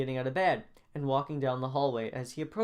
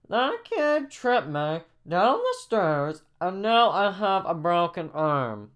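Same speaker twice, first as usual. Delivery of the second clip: high, loud, slow wail; upset hurt kid; 6 semitones higher, 6 dB louder, slower than usual. Acted. Reggie accusing the kid to Miss Walker, upset. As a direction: wail the complaint in a put-on voice. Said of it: "Reggie's kinda, you know, upset".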